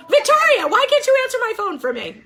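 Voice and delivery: high, fast, laughing complaint; laughing tease. Real, not acted. Teacher teasing Victoria about answering her phone, laughing. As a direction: giggle through a mock grievance.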